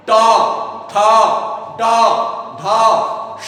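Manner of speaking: ट ठ ड ढ श each said alone with the tongue curled back to the palate; retroflex letter sounds. Shown as a demonstration. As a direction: pause between ट, ठ, ड, ढ and श so each sound stands clear. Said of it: "जैसे हम बोलते हैं".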